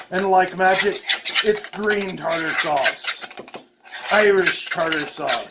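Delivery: loud, proud magic reveal; showman reveal. Real, not acted. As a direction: announce it like a magic trick.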